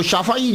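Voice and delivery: "شافعی" as shaa-fa-ee, open a after the f; easy local pronunciation. Shown as a demonstration. Lecturer showing the easier local form, "شافعی" with zabar on fa. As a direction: say "شافعی" without effort, in the common way. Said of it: "وہ بڑا آسان ہے ہمارے لفظ".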